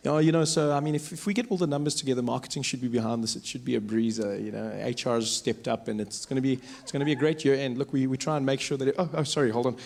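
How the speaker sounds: low-pitched casual office talk; normal driver chat. Acted. White driver talking numbers with friends, talking normally. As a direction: chat business offhand, then break off. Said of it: "talking normally, sitting in the car".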